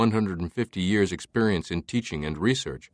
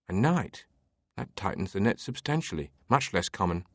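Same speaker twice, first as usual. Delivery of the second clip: lightly voiced amused librarian; 5 dB quieter than usual.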